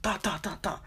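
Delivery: rapid spoken knock sounds; imitated hard knocking. Student retelling banging on the classroom door, imitated knocking. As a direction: tap out knocks with the tongue. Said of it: "knocking at the door hella hard".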